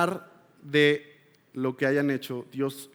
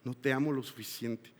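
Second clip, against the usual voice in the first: "No te amo lo suficiente" said softer, dropping away after a long pause; quiet confession; 4 semitones lower, 6 dB quieter than usual. Retold or imitated. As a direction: let the admission sink in softly. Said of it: "Fui honesto con Dios".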